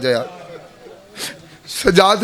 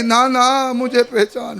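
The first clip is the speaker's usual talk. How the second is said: slow weeping plea; 3 semitones higher, slower than usual. Acted. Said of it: "हम बीबी कहती".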